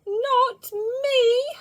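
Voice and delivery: very high, loud protest; a little girl protesting to the glaring bears; crying out. A narrator's reading. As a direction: cry it out, way up high. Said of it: "she cried".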